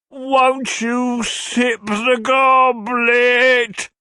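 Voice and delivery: high, very slow, swooning plea; imploring suitor. A narrator's reading. Old gentleman urging Mrs Nickleby, imploring. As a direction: beg theatrically with drawn-out words. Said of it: "urged the stranger".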